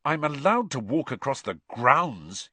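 pointed retort. A narrator's reading. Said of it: "he said pointedly".

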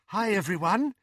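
high, happy greeting. A narrator's reading. Luna greeting her friends on her return, happy. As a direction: greet them happily, pitched well up. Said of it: "said Luna happily".

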